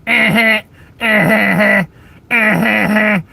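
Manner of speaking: put-on a brief taunting snicker at the accent; mocking chuckle. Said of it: "it'd be better if you did anything other than".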